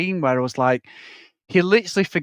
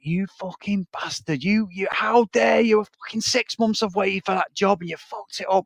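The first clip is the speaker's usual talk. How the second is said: imitated indignant delivery; 3 semitones higher, 4 dB quieter than usual. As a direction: imitate an affronted man, holding the volume back. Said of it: "Gerald's delivery was like".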